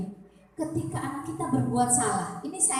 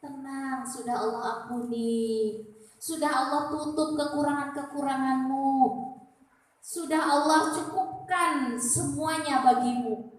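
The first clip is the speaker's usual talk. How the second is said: menenangkan. Acted. Angel reassuring a dying believer.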